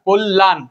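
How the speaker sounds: কল্যাণ as "kol-lan"; doubled l. Shown as a demonstration. Teacher summing up the rule, কল্যাণ with doubled l. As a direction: sound the l twice in কল্যাণ. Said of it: "দ্বিত্ব উচ্চারণ হচ্ছে".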